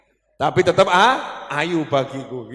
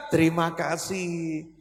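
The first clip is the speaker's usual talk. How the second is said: soft, slow, gracious thank you; sweet polite thanks; 3 dB quieter, slower than usual. Retold or imitated. Husband thanking the café waitress, soft and gracious. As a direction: thank her sweetly and slowly.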